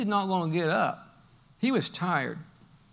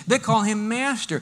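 ordinary talk

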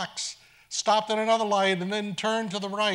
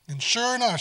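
ordinary talk

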